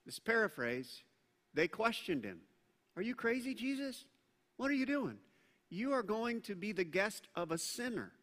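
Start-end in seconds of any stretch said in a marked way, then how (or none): 3.0-8.1 high, disbelieving question; the crowd questioning Jesus, voice lifted in shock; incredulous crowd. Retold or imitated. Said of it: "the people around Jesus said".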